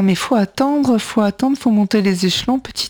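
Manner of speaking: naysayer's advice. Acted. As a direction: mimic a know-it-all advising patience. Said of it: "quelqu'un qui va te dire".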